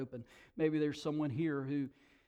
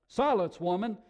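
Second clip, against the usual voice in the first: loud, raised command; angry cry; 5 semitones higher, 8 dB louder than usual. A narrator's reading. Cave dweller silencing the woman, angry cry. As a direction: silence her forcefully. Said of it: "cried one of the cave dwellers".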